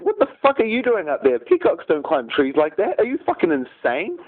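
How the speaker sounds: high, incredulous yelling monkey; a monkey yelling at a peacock in a tree, high and outraged; indignant monkey. Acted. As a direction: shout up the tree in disbelief, pitched high.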